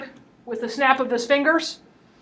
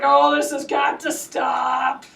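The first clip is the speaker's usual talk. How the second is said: weary exasperation; slower than usual. Retold or imitated. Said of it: "Co-conspirator's like".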